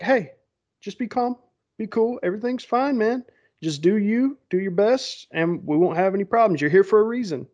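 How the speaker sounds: lightly acted buddy-buddy encouragement; friendly reassurance. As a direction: put the nervous player at ease. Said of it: "trying to get comfortable with him".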